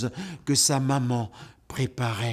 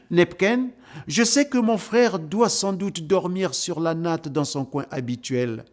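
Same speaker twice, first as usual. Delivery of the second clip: confiding; 4 semitones higher than usual. Acted. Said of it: "confie Dalla à son ami".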